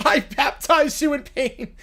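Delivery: slow, laughing through the words; barely holding a laugh; laughing repeat. Real, not acted.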